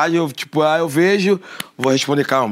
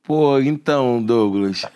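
long-winded voice message; 5 semitones lower than usual. Retold or imitated. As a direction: drag it out like a rambling voice note. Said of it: "longos, que tipo, e a pessoa já fala assim".

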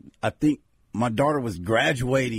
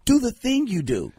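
high, insistent plea; insistent fan; 7 semitones higher than usual. Acted. Fan refuses autograph, wants the thing, high insistent plea. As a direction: push the favor in a higher voice.

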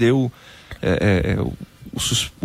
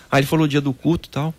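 ordinary talk

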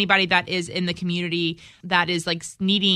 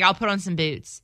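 Southern double O's. Shown as a demonstration. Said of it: "I only notice my accent when I do, like, double O's".

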